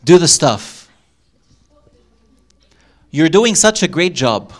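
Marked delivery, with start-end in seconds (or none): 3.1-4.5 encouraging. Shown as a demonstration. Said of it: "Exercise. Guess the meaning".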